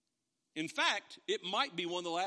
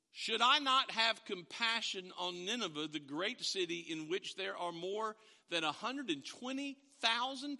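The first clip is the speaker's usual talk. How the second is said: God's measured reply; 2 semitones higher than usual. Retold or imitated. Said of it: "Then God said".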